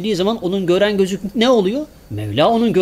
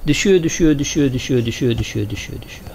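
sinking away; 2 semitones lower than usual. Shown as a demonstration. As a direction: let "düşüyor" fall away into a whisper. Falling, voice sinking to whisper. ("düşüyor" sözcükleri giderek alçalıp fısıltıya dönüşüyor)

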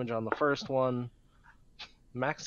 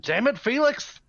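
higher, loud exasperated yell; angry shout; 12 semitones higher, 11 dB louder than usual. Pretend. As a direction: yell it while cracking a whip. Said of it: "And I'm gonna be saying".

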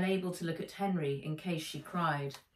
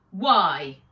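suspicious why; 12 dB louder than usual. Acted. Suspicious Charlotte.

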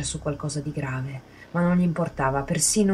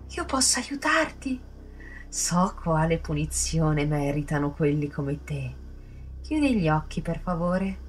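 high, slow, unhinged voice that swells loud; a twisted girl offering punishment; creepy sing-song sadist, then sweetly menacing; sadistic; 4 semitones higher, 5 dB louder than usual. A narrator's reading. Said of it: "quasi sadica".

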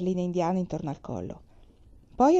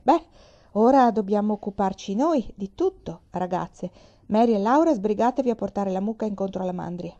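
cheerfully. Acted. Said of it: "disse allegramente".

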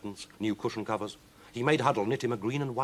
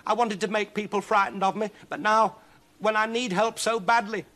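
high, loud, desperate lament; wailing; 14 semitones higher, 6 dB louder than usual. Acted. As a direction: wail on in despair. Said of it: "she wailed".

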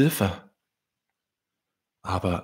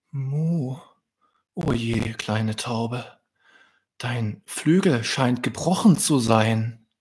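cow queen voice; 3 semitones higher than usual. Acted. Cow queen sees broken wing.

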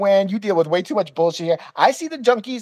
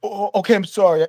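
imitated stuttering apology; humiliated stammer; faster than usual. Humiliated guest apologizing to the clerk, mock stammering. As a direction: play a cowed man backing down. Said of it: "like, humiliated".

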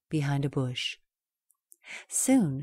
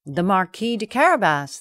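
louder dutiful answer; farmers' reply; 6 dB louder than usual. Acted. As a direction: answer as told by the cat.

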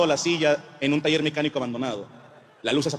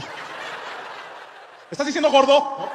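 mock offended; 8 semitones higher, much slower than usual.

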